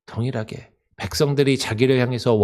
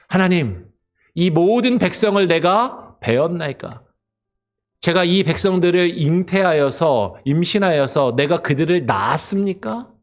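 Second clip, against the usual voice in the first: Moses complaining; 4 semitones higher than usual. Retold or imitated. Moses pleading with God, higher exasperated protest. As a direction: demand answers from God in frustration. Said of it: "이렇게 이야기해요".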